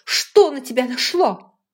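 put-on a furious young woman demands an answer; indignant outburst. A narrator's reading. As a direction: demand it at full voice. Rachel angry outburst.

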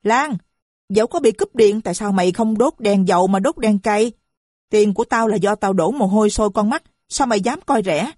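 mother yelling at her daughter about wasted money. Acted. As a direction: scold the daughter at full voice. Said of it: "rồi hét lên".

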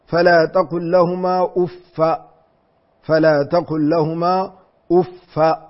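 أف read as uffa, doubled fa with fatha, no tanwin. Shown as a demonstration. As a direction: end أف on a clean uffa. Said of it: "بفتحة من غير تنوين".

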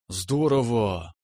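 slow, awed delight; a lightly played gasp of wonder; enchanted. A narrator's reading. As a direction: savor the word, spellbound. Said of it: "очарованно выговорила Тимоша".

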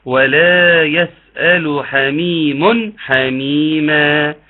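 very slow chanted recitation; Quranic recitation. Shown as a demonstration. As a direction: recite slowly with tajwid. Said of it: "ثم اخر آية".

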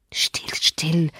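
soft hushing whisper. Acted. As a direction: hush the child gently. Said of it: "flüsterte ich ihr zu". (geflüstert)

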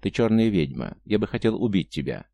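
usual speaking voice

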